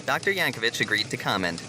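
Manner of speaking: crisp evening news delivery; news anchor read. Acted. Anchor reporting the toilet incident, news read. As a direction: read it like the nightly bulletin.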